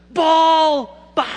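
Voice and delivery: hammed-up baby-class cheer; mock excited instructor. Pastor mimicking the baby-class instructor, hammed-up excitement.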